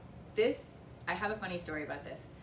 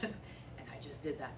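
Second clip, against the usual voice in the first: laughing softly at herself, slower; amused, softer giggle through the words; quiet self-conscious laugh; real giggle; 4 semitones lower, 6 dB quieter, slower than usual. Real, not acted. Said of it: "what I'm kind of giggling about".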